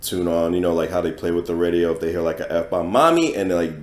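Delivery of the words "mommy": put-on high little kid calling out; a hint of a startled child. Kid hears F-bomb on radio.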